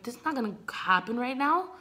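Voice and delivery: acted-out annoyance at a stranger; retold fury. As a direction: tell him off, a touch angry. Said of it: "I'm furious".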